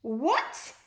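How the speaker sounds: shocked exclamation; exclaimed. A narrator's reading. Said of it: "exclaimed the Envies".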